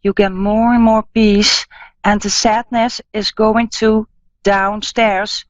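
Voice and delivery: soothing psychic healer easing a caller; guided healing meditation. Acted.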